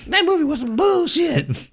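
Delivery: very high, puppet-like Elmo voice; high squeaky puppet complaining. Pretend. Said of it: "So I'm Black Elmo".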